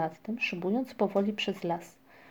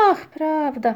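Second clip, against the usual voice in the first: sudden recollection; 7 semitones higher, 4 dB louder, slower than usual. A narrator's reading. Migotka suddenly remembers.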